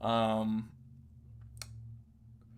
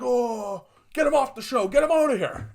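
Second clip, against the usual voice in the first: much higher and louder shrieking demand; mock outraged mob; 11 semitones higher, 7 dB louder than usual. Cancel crowd demanding the host be removed, high mock outrage. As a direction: squeal like a hysterical mob wanting him gone.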